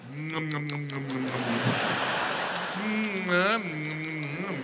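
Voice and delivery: soft, hummed "nom nom" noises; imitated munching. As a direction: pretend to savour a mouthful, murmuring. Mimes drinking a clam juice cocktail.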